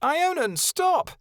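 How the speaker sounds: very high, loud yell; shrill high cry of stop. Acted. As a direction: scream at him to stop. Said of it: "Kia pulled Snowdrop around and yelled".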